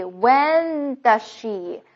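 very slow "when", then "does she" as "duh-shee"; dropped z. Shown as a demonstration. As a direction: stretch it out, merge "does she" without the z. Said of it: "does后面的z给去掉了". (慢速示范 does she 去掉 z 连读)

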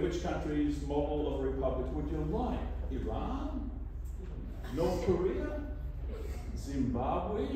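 rising mock questions; sarcastic list of countries; mocking incredulous.

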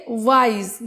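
"ওয়াইজ" drawn out in one unbroken pull; one-stroke pronunciation. Shown as a demonstration. Teacher showing a single syllable, "ওয়াইজ" said in one stroke. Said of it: "একদম এক টানে উচ্চারণ করছি".

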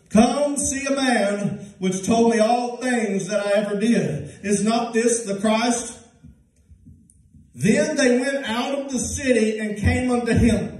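slow, measured Bible reading; scripture reading. Acted. Preacher reading John four to the congregation, slow and measured. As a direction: read the verse slowly and deliberately.

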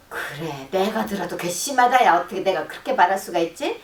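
taking her side. Shown as a demonstration. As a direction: agree with mock outrage at yourself. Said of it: "확 편을 들어가지고".

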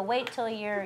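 usual speaking voice

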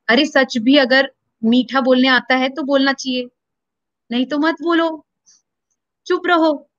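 lightly voiced stern teacher; a hint of a strict guru scolding. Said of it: "in that source voice".

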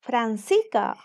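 "Francica" without the s before c, fran-SEE-ca; dropped s. Shown as a demonstration. Teacher giving students a dialect example, "Francica" without the s. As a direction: say "Francica" swallowing the middle s. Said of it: "en vez de decir Francisca".

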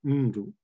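"ndu" with the first syllable clearly prominent; prominence on first syllable. Shown as a demonstration. Linguist showing the audience ndu in isolation, first syllable prominent. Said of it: "with a clear prominence on, uh, the first, uh, syllable".

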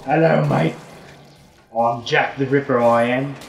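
hammed-up Cockney British villain; mock British accent. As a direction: introduce yourself in put-on British. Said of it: "Are we really doing British accents".

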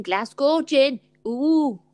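"Glasgow gin" with a light Scottish accent, "Glasgow" said "Glazgo"; lightly done Scottish accent on "Glasgow gin". Shown as a demonstration. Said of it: "That's my Scottish accent".

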